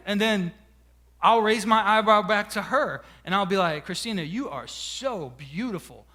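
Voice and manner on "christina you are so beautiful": low, soft, playful flattery; mock sweet-talk. Husband sweet-talking his wife, soft mock-tender voice. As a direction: lay on a gently acted compliment.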